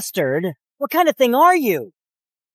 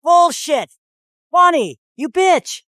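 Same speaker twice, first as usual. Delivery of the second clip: raised, indignant outburst; angry outburst; 4 semitones higher than usual. Acted. Accused man cursing Bonnie, angry outburst. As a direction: lash out at the woman accusing you.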